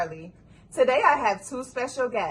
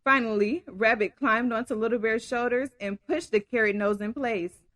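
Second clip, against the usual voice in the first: story narration. A narrator's reading. Reads story aloud.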